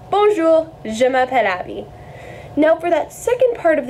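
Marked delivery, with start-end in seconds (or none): 0.1-1.9 Bonjour, je m'appelle in careful French sounds; French pronunciation demo. Shown as a demonstration. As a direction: model Bonjour, je m'appelle clearly for learners. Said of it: "which would translate over to".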